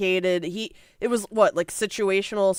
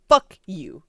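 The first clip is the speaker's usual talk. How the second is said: from the soul; 3 semitones lower, 4 dB louder than usual. Retold or imitated. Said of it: "saying it from his fucking soul".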